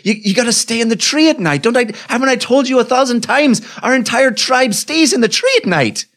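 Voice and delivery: lightly voiced koala elder laying down the law; scolding koala elder. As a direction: koala elder warning Killarney to stay in the tree.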